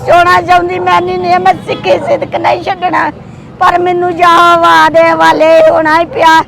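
earnest blessing prayer, steady chant-like flow; heartfelt prayer. Real, not acted. (ਅਰਦਾਸ ਕਰਦੀ ਆਵਾਜ਼)

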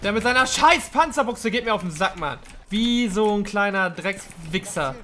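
angry rant. Real, not acted. Raging at enemy player.

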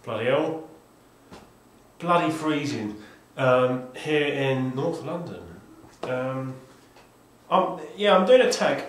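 talking through a scarf; muffled through scarf. Real, not acted. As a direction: scarf over the mouth, muffled. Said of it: "apologies for the scarf".

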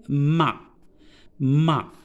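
"ma" as one blended syllable; syllable demonstration. Shown as a demonstration. Teacher blending M and A for beginning readers, "ma" said as one syllable. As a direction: sound out "ma" separately and distinctly. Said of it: "je vais la prononcer".

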